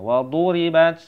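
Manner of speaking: "waduribat" firmly voiced, long du; recitation demo. Shown as a demonstration. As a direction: sound out "waduribat" clearly. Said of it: "seperti itu ya".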